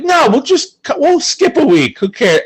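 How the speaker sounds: high, breezy who-cares tone; careless high voice. Retold or imitated. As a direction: toss it off lightly. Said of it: "I had a very lax attitude of like".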